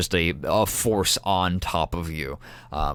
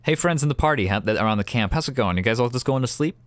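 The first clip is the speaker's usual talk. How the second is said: calling out; 4 semitones higher than usual. Acted. GM calling to party in-character.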